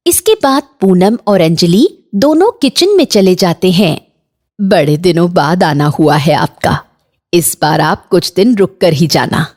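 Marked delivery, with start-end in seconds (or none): 4.6-9.5 lightly voiced low mother-in-law; a touch lower, as a considerate elder of the house. Mother-in-law sends bahu for snacks, lightly voiced low.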